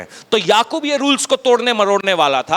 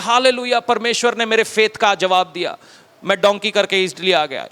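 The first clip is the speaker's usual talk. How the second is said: mock pious migrant. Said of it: "फिर बोलते हैं".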